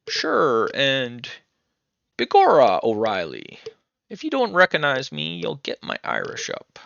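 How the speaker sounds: hammed-up Irish lilt, opening high and loud; mock Irish accent. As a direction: read it like a bad stage Irishman. Reads out stage-Irish dialogue option.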